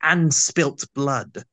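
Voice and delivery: slow, drawn-out retort; lightly voiced Seventh Doctor, slowly; slow McCoy line. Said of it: "he immediately responds to the comment about crying over spilt milk with".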